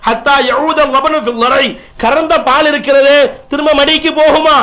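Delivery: emphatic sermon oratory; impassioned preaching. Real, not acted. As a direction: declare it with total conviction. Preacher proclaims a prophetic saying.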